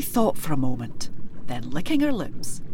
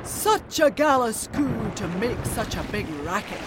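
roaring; 4 semitones higher than usual. Acted. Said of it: "roared the kelpie".

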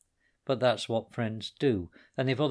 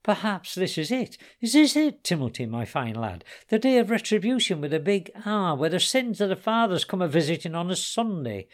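menacing taunt; 8 semitones higher, 5 dB louder than usual. Acted. O'Keefe menacing with the gun.

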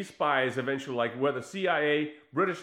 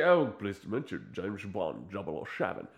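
a hint of suave Bond; 8 semitones lower, 6 dB quieter than usual. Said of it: "It's like".

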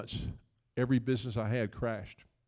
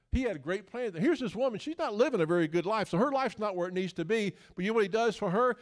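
animated preaching; 7 semitones higher, 4 dB louder than usual. Real, not acted. Preaches the woman's story.

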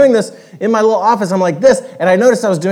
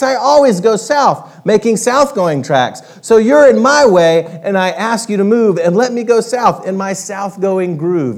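higher, louder retort; snappish south-going Zax; 3 semitones higher, 4 dB louder than usual. Acted. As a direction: snap back at the rival. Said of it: "snapped the south-going Zax".

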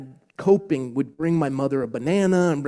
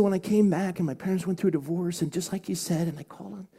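real choked-up retelling, higher in pitch; 4 semitones higher than usual. Real, not acted. Pastor retelling a girl's testimony, choked up. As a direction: fight back tears while quoting her. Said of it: "I'm still choked up".

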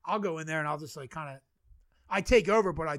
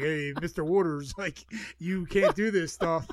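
slow, louder scolding official; mock dock master; 7 dB louder, slower than usual. Dock master scolding him for parking his boat, slow and stern. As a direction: drawl out a dock master's warning.

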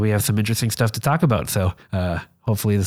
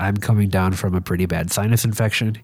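stuffy nose; 2 semitones lower than usual. Real, not acted. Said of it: "You could probably hear that in my voice".

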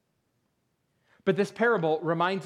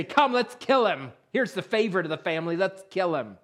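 lightly voiced brothers urging murder; scheming brothers; 3 semitones higher than usual. Joseph's brothers plotting against him, mock scheming. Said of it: "and they say".

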